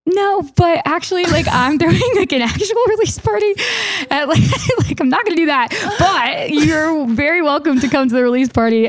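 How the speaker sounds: high-pitched imitation of a star, laughing through it; Paris Hilton. Songwriter playing the star's reply to her invite, high-pitched impression. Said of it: "And you're like".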